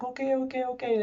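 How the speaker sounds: calm her down gently; soothing okay. Retold or imitated. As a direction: border agent soothing a crying traveler. Border agent calming sobbing woman.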